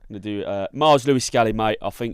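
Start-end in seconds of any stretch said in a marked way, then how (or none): 0.7-1.8 hammed-up Cockney lad, a bit louder; put-on Cockney accent. Announcing he'll keep the accent, mock Cockney. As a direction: say the name like a cheeky Cockney fan. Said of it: "I'm gonna do this whole thing in that accent".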